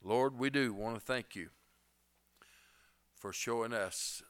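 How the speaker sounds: prayer. Acted. Closing prayer for the congregation.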